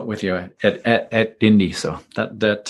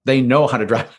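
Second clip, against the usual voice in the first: sarcastic; 2 semitones higher than usual. Pretend. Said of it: "being a little sarcastic there".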